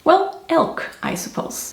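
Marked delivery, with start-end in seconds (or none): 0.5-0.9 "elk" as one syllable, like the animal; English pronunciation. Shown as a demonstration. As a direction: say "elk" the English way, no final vowel. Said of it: "how do you say it?".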